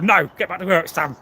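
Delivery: light mock Texas accent as the boss. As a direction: boss ordering the worker back in a faint Texas accent. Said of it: "in a Texas accent".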